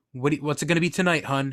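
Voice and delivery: a hint of a chatty waitress taking an order; diner waitress. Waitress to late-night customers, lightly imitated diner waitress.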